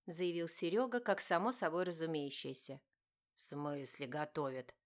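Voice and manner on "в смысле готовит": growled. A narrator's reading. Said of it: "зарычал Стас".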